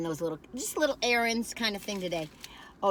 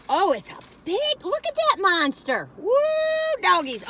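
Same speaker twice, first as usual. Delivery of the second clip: a bit higher and louder, wowed by the size; excited marvel; 9 semitones higher, 5 dB louder than usual. Real, not acted. Vlogger wowed by her huge sandwich on camera, excited. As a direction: gasp over the monster sandwich.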